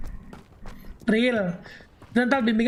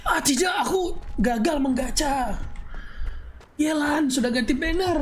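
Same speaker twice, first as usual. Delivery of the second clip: mock crying gamer; 4 semitones higher than usual. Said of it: "gitu, dia nangis akhirnya".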